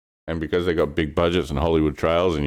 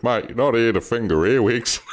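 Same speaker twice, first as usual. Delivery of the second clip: punchy higher Aussie retort; higher Aussie quip; 7 semitones higher than usual. Retold or imitated. Retelling a friend's Aussie comeback, pitched up. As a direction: fire back the Aussie line. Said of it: "he goes".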